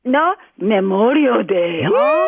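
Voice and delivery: slow, teasing seductive voice; sexy voice. Shown as a demonstration. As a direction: purr it out slowly. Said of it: "That's not sexy".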